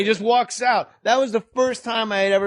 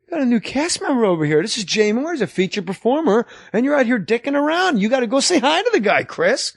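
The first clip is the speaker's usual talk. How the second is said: mock scolding boss; 5 semitones higher, faster than usual. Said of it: "And he goes".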